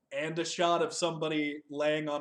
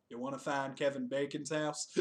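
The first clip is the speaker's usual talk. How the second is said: lightly acted, softer second character; acted echoed question; 5 dB quieter than usual. Stranger answering the searchers in a retold scene, subdued echoed question. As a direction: echo it back more quietly, as someone else.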